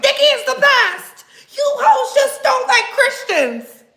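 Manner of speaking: high-pitched, loud mocking yell; mock fan outrage. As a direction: imitate a defensive fan shrieking back. Acts out angry fans arguing back.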